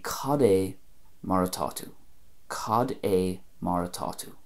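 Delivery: "Cad é mar atá tú" said the Donegal way; Ulster Irish. Shown as a demonstration. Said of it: "And in Ulster, Donegal".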